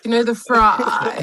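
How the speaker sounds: slow, creaky fry voice; lazy vocal fry drawl. Shown as a demonstration. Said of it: "when you talk like that".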